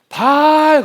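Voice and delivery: high, loud cry; calling out to Baal. Acted. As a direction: prophets crying out to Baal, loud call. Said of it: "여기서는 계속".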